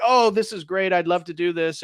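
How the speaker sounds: imitating someone keen to accept; retold eagerness. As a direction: act out an eager yes. Mozart eagerly accepts the commission.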